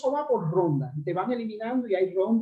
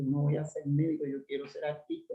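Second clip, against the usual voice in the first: put-on softer, hushed telling of a childhood secret; retold hushed confession; 4 semitones lower, 7 dB quieter than usual. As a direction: keep it low, like telling mum a secret. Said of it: "le decía a mi mamá bajito".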